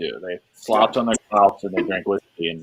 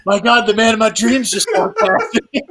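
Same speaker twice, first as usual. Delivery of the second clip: higher, slow mock swoon with laughter; smitten Southern woman; 12 semitones higher, 3 dB louder than usual. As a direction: swoon over the man of her dreams, hammed up. Friend mimics the smitten woman.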